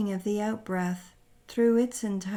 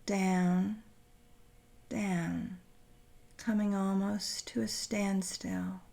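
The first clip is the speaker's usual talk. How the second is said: gradually winding down; slower than usual. Acted. Guide describing a record slowing to a standstill, gradually winding down. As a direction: wind down like a turntable losing speed. Voice winds down with imagined turntable.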